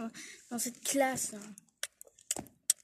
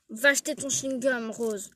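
insisting teacher, louder; firm louder order; 6 dB louder than usual. Acted. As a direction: raise the voice on the repeated order. Prof répète l'ordre plus fort. (ordre répété plus fort)

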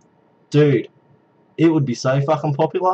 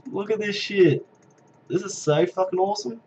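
laughing; 6 semitones higher, 5 dB quieter than usual. Real, not acted. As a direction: laugh while pointing it out. Amazed by the crowd.

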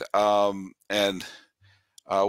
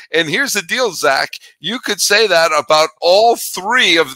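loud, hammed-up excited yelling with laughs; mock outburst; 5 semitones higher, 9 dB louder than usual. Host reading a listener's comment to his guest, yelling with mock excitement. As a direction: bellow it all out in mock frenzy. Host bursts out after promising calm.

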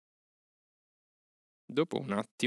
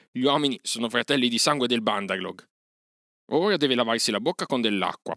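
mocking aside; 3 semitones higher, 5 dB louder than usual. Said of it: "disse Mowgli fra sé".

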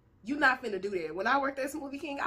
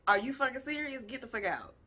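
calm manager; 3 dB quieter than usual. Retold or imitated. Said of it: "That nigga was calm than a bitch".

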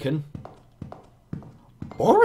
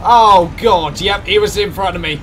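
being chased; 3 semitones higher, 10 dB louder than usual. Real, not acted. Chased by monster, fleeing.

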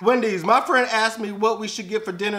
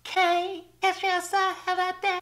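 much higher, lightly put-on; mock friend text voice; 10 semitones higher, 4 dB quieter than usual. Friends texting back, mock high voice. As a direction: read the text in a higher silly voice. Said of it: "all my friends talking about".

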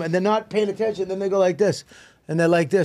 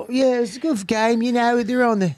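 higher mock British voice; British accent; 5 semitones higher than usual. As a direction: play a Brit chatting about football. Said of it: "All right, go British".

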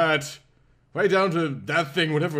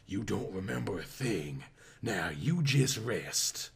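put-on sultry Southern accent; 6 semitones lower, 8 dB quieter than usual. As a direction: purr it like a Southern belle nurse. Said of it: "accent of a sexy southern peach".

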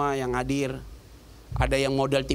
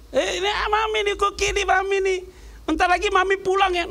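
put-on very high baby-talk cooing; wife cooing to dog. Wife promising the dog she's coming home, high cooing. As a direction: sweet-talk the puppy on the phone. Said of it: "Jadi gitu".

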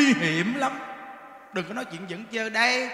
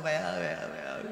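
imitated wailing; 7 semitones lower, 9 dB quieter than usual. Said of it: "Nó khóc kinh khủng lắm".

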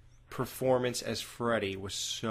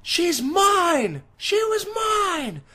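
high, loud, slow angry shout; showing how the villain should say it; angry warning; 7 dB louder, much slower than usual. Shown as a demonstration. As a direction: roar it as a threat. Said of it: "you're supposed to go".

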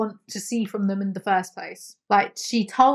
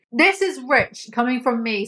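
sarcastic repeat; 4 dB louder than usual. Real, not acted. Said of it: "So rich it's like Elon Musk".

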